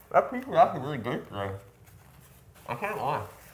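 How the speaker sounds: talking through a mouthful, swooping pitch. Praising the pizza while eating, talking with a full mouth. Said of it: "say that with my full mouth".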